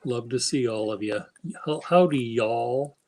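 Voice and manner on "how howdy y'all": Texan accent. Shown as a demonstration. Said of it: "That's how you do it".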